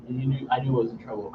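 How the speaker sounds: ordinary talk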